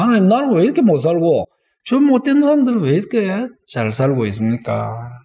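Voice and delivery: mild acted grievance in prayer; 따지는 기도. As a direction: complain to God as if hard done by. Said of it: "하나님께 따지는 사람". (살짝 억울한 듯 따지는 말투)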